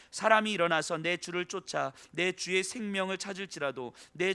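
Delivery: measured solemn Bible reading; scripture reading. Shown as a demonstration. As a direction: read the verses like a pastor at the pulpit. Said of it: "이십육 절부터 제가 한번 읽어보겠습니다".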